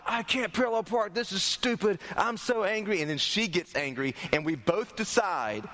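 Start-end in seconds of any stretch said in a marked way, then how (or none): 0.1-3.0 higher-pitched exasperated complaint; worked up, not shouting; retold frustration. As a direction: act out fed-up driver griping. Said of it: "I am, I am angry".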